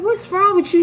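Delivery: high-pitched teacher imitation; retold high, insistent question. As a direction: voice the teacher pressing, pitched well up.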